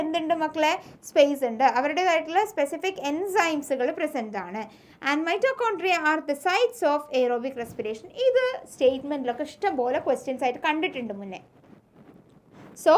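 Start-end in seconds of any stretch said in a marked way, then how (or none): 5.1-8.1 slow, deliberate textbook dictation; teacher dictating notes slowly. Shown as a demonstration. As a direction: read it out word by word for notes.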